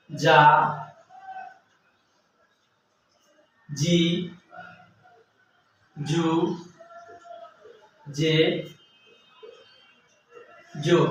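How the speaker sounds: যা, জি, জু, জে, জো each said slowly and separately with long pauses; slow syllable drill. Shown as a demonstration. Teacher showing the class যা জি জু জে জো, slow and separate. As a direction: sound out যা জি জু জে জো one at a time. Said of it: "এখন আমার উচ্চারণ হবে".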